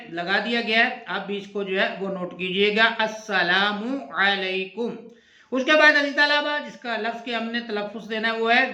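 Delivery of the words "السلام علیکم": "السلام علیکم" said slowly, each word fully sounded out; slow careful pronunciation. Shown as a demonstration. Teacher to students, showing the pronunciation slowly. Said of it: "اس کا تلفظ جو ہے وہ آپ دیکھ رہے ہیں".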